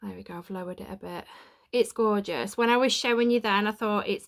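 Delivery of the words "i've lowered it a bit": whisper. Real, not acted. Dark room, hushed.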